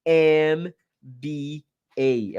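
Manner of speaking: M B A said very slowly, M starting on the vowel "em". Shown as a demonstration. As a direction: drag out each letter of M B A. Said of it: "então aqui seria an".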